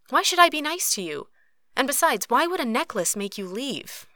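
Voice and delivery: high-pitched indignant retort. A narrator's reading. Katori refusing Cruz's request about the necklace, indignant. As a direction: push back, affronted. Snaps back at his request.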